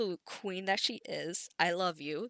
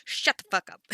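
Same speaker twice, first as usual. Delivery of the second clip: loud, blunt brush-off; rude snap; 2 semitones higher, 6 dB louder than usual. Acted. Headmaster snapping at a teacher, loud brush-off. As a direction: shut him down hard.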